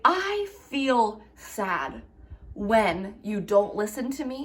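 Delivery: slow, calm and honest; calm honest I statement. Shown as a demonstration. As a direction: say it plainly and kindly. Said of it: "if you are honest and say".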